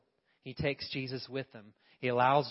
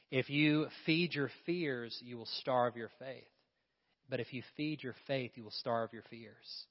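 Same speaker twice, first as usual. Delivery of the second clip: preaching cadence. Acted. Preaching contrast.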